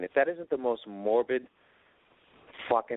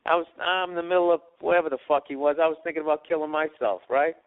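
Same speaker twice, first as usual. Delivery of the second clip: louder, higher, through a laugh; laughing confession; 6 semitones higher, 7 dB louder than usual. Retold or imitated. Friend admitting it on the phone, laughing loudly. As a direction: blurt it out half laughing. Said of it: "he goes".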